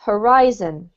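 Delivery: Horizon said ho-RI-zon, stress on RI; pronounced carefully. Shown as a demonstration. Teacher modelling the word for the student, said carefully. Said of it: "the other one here was horizon".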